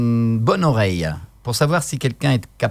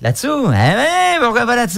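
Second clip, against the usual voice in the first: much higher, woman's voice; 14 semitones higher than usual. Shown as a demonstration. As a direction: jump up into a woman's register. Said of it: "des voix de femmes".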